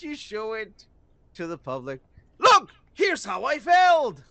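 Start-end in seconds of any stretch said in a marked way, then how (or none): 2.4-4.2 slow, loud, higher mock announcement; showing off his own flop, slow mock fanfare; mock failed creator. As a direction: present your flop with fake pride. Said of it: "if I show a project to Disney".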